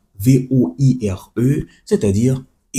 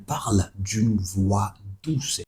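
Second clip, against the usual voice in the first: softer, gentle reread of the line; 2 semitones lower, 9 dB quieter, slower than usual. Shown as a demonstration. Teacher rereads the example in a gentle voice. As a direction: say it the way a soft voice sounds.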